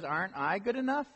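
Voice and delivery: hammed-up pleading husband, pitch up; oblivious husband pleading. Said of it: "He pretty much says".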